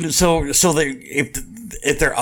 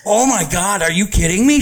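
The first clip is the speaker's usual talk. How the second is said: raised, louder, exasperated disbelief; mock disbelief; 7 semitones higher, 4 dB louder than usual. Telling friends about an airhead coworker, mock exasperation. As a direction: throw up your hands at a coworker's blunder. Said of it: "And I'm like".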